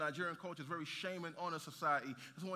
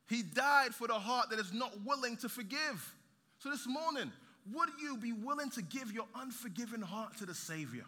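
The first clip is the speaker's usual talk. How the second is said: raised, emphatic sermon delivery; impassioned preaching; 5 semitones higher, 4 dB louder than usual. Real, not acted. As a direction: press the appeal home to the congregation. Preaching at full force.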